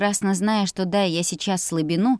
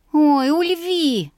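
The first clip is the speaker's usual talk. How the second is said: high, slow, louder mock wave-off; higher, louder, slow mock dismissal; feigned dismissal; 8 semitones higher, 5 dB louder, much slower than usual. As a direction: brush him off with fake nonchalance. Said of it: "делано отмахнулась я".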